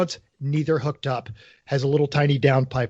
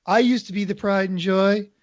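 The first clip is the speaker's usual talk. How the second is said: put-on old car voice; 3 semitones higher than usual. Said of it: "all the other cars are telling your N S X lies".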